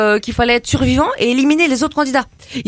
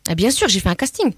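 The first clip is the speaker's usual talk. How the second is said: put-on brash teen girl from the estate, chatty and cocky; cheeky suburban girl; 4 semitones lower than usual. Comedy guest chatting to the radio host as a cocky suburban girl. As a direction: play a gossipy banlieue girl full of slang. Same character continues.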